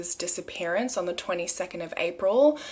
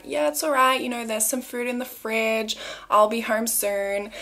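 light, breezy mom-on-the-phone voice, starting higher; casual mom on the phone; 4 semitones higher than usual. Retold or imitated. Undercover woman fakes a chat with her daughter, breezy. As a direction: act like you're just chatting to your kid. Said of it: "Pretend it's your daughter on the phone".

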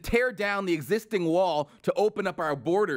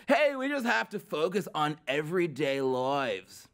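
lightly mocking surfer bro; mock an easygoing surfer bro; surfer bro impression. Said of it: "that aging surfer bro from Montana".

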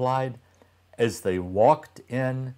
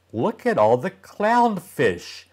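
excited; 7 semitones higher, 4 dB louder than usual. Acted. Excited child in story.

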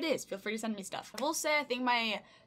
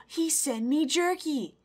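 slow, higher, falling at the end; emphatic amazement; 4 semitones higher, 3 dB louder, much slower than usual. Real, not acted. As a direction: draw out each word in awe. Repeats it after a gasp.

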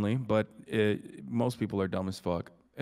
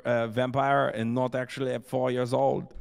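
put-on French accent; 2 semitones higher than usual. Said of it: "your French accent is not bad".

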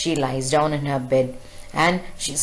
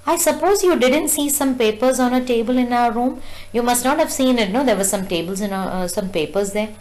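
mother's questioning voice; 7 semitones higher than usual. Retold or imitated. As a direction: play the mother probing her daughter. Mother questions Kezia about papers.

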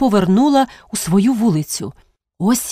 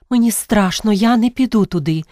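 trembling; 2 semitones higher than usual. Acted. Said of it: "тремтячи".

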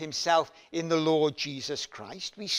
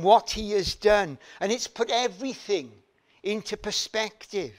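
Asaph's growing conviction; 4 semitones higher, 6 dB louder than usual. Retold or imitated. Preacher voicing Asaph's conclusion, building to loud. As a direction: build the confession up until it rings out. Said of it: "a point of saying".

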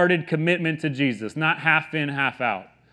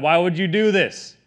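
acted protest, a little raised and pressing; mad at God; 3 semitones higher, 4 dB louder than usual. Believer questioning God in hard times, mildly mad. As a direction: plead a grievance with a touch of anger. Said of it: "you're mad at God".

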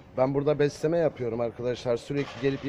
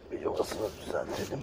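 "Bir yuvasını düzeltelim" whispered, softer; 5 semitones lower, 7 dB quieter than usual. Real, not acted. Fixing the kittens' nest, whispering to herself. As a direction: say "yuvasını" in a breathy under-the-breath whisper. Repeated under breath.

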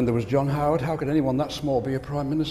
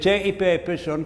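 gruff Yorkshireman; 3 semitones higher than usual. Retold or imitated. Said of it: "He was a gruff Yorkshireman".

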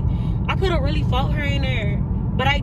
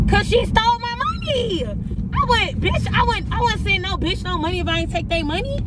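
angry; 7 semitones higher than usual. Real, not acted. Ranting to her friend about the stolen money, furious and high. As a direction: let the outrage spill out, pitched up.

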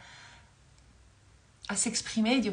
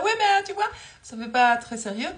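angry crying; 2 semitones higher, 5 dB louder than usual. Retold or imitated. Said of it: "Je vais pleurer en même temps".

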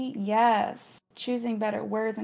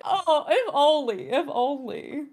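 wistful laugh; 5 semitones higher, slower than usual. Real, not acted.

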